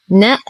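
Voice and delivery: short نأ, quick na straight into the hamza; unstretched two letters. Shown as a demonstration. Teacher checks the last letters are not stretched, short syllables. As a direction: say نأ short, no lengthening. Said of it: "نأخذ آخر حرفين فنقول".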